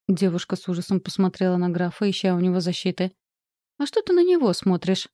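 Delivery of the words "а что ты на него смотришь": high-pitched yell; shouting. A narrator's reading. Oksana yelling at the girl for looking to the count. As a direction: shout her down, voice jumping up. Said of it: "закричала Оксана".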